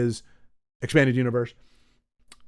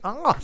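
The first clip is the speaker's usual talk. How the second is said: wince; 8 semitones higher than usual. Shown as a demonstration. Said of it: "biting on a fork with your back".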